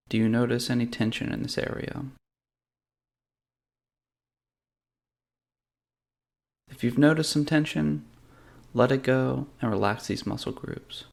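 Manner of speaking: calm, measured meditation guide with long pauses; guided meditation. Real, not acted. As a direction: lead them gently through a body scan, unhurried. Leads a guided body-scan meditation.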